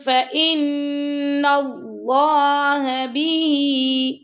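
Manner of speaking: بہ with its vowel held two seconds; long ha. Shown as a demonstration. Teacher drawing out the ha of بہ in recitation. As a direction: stretch the ه in بہ. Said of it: "دو second تک لمبا کریں گے".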